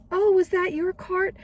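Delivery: amused shopper asks about the cart; high-pitched lady shopper. Retold or imitated. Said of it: "She's like".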